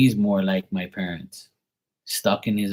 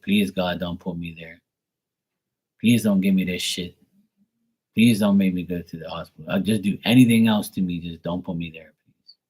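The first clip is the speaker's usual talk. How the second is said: begging God; 2 semitones lower than usual. Retold or imitated. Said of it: "I beg God".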